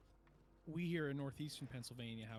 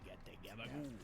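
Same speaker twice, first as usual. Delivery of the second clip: Tony Soprano gabagool; 6 semitones lower, 5 dB quieter than usual. Retold or imitated. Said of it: "New York Tony Soprano".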